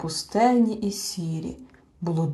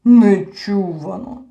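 slow, louder delighted exclamation; 8 dB louder, slower than usual. A narrator's reading. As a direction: savour the word with joy. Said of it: "зрадів Гемуль".

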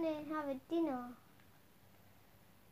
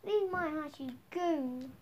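yelling; 5 dB louder than usual. Real, not acted. Yelling at zombies.

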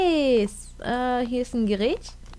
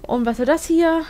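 "Und was soll das hier?" asked louder with "hier" stressed; louder, puzzled "Und was soll das hier?"; 5 semitones higher, 4 dB louder than usual. Shown as a demonstration.

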